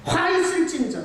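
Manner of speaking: high-pitched quoted denunciation, not full anger; retold rebuke. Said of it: "욕은 했어요". (높은 음으로 흉내 내는 꾸짖음)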